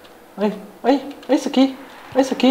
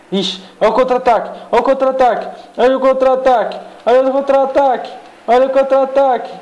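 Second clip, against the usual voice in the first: narração de jogo empolgada; 8 semitones higher, faster than usual. Acted. Narrando jogada de contra-ataque.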